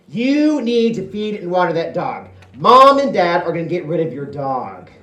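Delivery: the sister nagging him about feeding the dog; bossy sister. Retold or imitated. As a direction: order him around.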